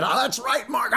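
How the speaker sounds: giggling, high mock radio caller. Caller gushing to radio host Mark, laughing and high. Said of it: "I'm afraid he'll give me a heart attack".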